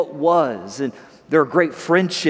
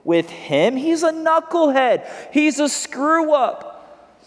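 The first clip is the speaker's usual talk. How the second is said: put-on angry older brother; 2 semitones higher than usual. Older brother refusing to celebrate Jimmy, angry. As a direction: act out mild anger, voice rising late. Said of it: "And he's angry. He's like".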